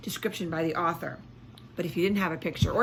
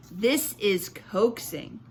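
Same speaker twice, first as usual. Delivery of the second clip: calm reply; much slower than usual. Acted. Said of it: "said Fleischman".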